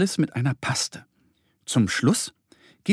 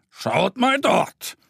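higher, slow call pointing something out; grandpa calling out; 7 semitones higher, much slower than usual. A narrator's reading. Grandpa bear shows the children plants, slow higher call. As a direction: lead the kids' eyes over there. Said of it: "ruft er".

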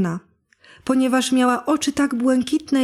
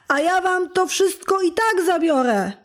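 wicked fairy threat; 6 semitones higher than usual. Acted.

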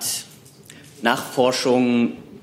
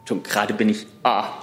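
sleep deprived; 3 semitones lower than usual. Real, not acted. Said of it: "Völlig übernächtigt".

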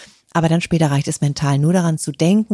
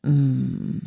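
contented hum; 2 semitones lower, 3 dB quieter than usual. Shown as a demonstration. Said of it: "wo spüre ich dieses".

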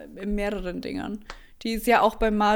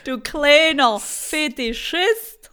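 lachend neckend; 2 semitones higher, 4 dB louder, slower than usual. Real, not acted. Neckt lachend.

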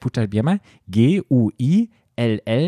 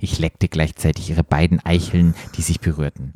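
low, measured read-aloud voice; composed, lower-pitched storytelling; story narration; 6 semitones lower than usual. A narrator's reading. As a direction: narrate it like an audiobook. Reads erotic story aloud.

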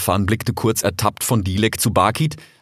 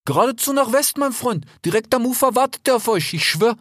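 put-on a slightly higher, friendly young fox; lightly voiced fox. A narrator's reading. Desert fox talking to his brother Rix, lightly voiced. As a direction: play the eager desert fox. Fennec voice.

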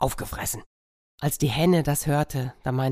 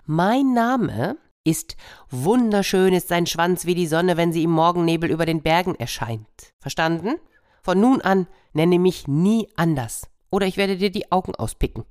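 screeching peacock; 4 semitones higher, 3 dB louder than usual. Acted. Peacock announcing his new name, high screech. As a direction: stretch the neck and screech it out. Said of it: "reckte den Hals vor und kreischte".

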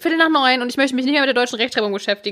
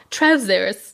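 British accent. Shown as a demonstration. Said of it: "mit so einem britischen Akzent sagen".

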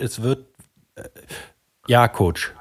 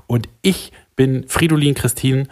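stiff announcer farewell; slower than usual. Acted. Formal radio sign-off.

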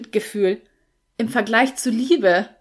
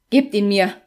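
demanding; 5 dB louder than usual. Acted. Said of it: "forderte George".

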